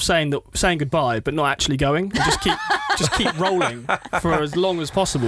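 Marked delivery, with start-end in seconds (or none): 2.1-5.3 laughing through the words; giggling while trying to speak. Real, not acted. Jokey Brexity sign-off, laughing.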